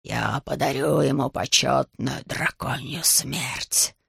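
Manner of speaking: very low, slow, hushed dragon voice; growling dragon. Acted. Dragon Ryuji coldly judging the fallen dragon, low and slow. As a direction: rumble it low like an ancient beast.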